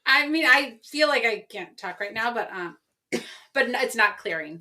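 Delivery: strained hoarse voice; losing voice. Real, not acted. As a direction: voice giving out. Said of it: "are you losing your voice".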